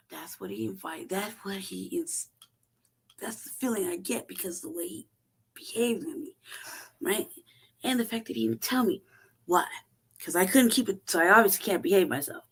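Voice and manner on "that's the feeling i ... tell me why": usual speaking voice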